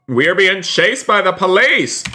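high, playful panic; alarmed exclamation. Pretend. Streamer warning viewers of a police chase, alarmed exclamation.

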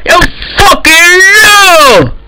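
drawn-out shout with a sob in it; slow crying shout. Acted. Server admin yelling at cheaters, slow crying shout. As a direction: yell each word slowly as if close to tears. Accusing players of hacking.

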